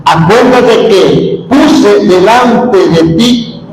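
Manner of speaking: slow, deliberate Bible reading; slow solemn reading; solemn scripture reading. Acted. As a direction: read the prophet's words with weight.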